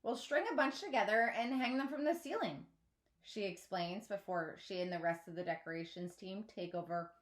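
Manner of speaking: steady storybook reading voice; story narration. A narrator's reading. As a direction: read the chapter to your listeners. Reads chapter aloud to listeners.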